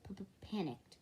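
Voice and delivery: stuck on the p; stammer. Shown as a demonstration. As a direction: stammer on panicked. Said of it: "it's more of a stammer".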